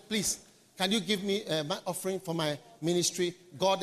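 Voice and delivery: a lightly voiced pleading beggar; soft, mock humble asking; begging. Preacher imitating a minister begging for offering, mildly pleading. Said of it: "it's a poor man who begs".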